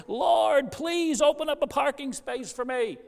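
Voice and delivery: high, loud plea to the Lord; a frustrated driver begging for a parking space; exasperated cry. Retold or imitated. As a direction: cry out to heaven, fed up. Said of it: "finally cries out".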